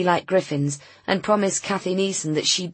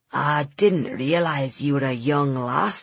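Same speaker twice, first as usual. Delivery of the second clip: slow, lower gruff local voice; a grumpy old man doubting her; gruff old Scots man; 3 semitones lower, slower than usual. Acted. Old van seller doubts the young woman, gruffly. Wooly's held voice.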